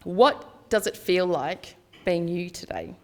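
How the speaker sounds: x0.6 pace, each word placed; unhurried, earnest question; slow, deliberate question. Shown as a demonstration. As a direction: ask it slowly so it lands. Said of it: "Here's this question".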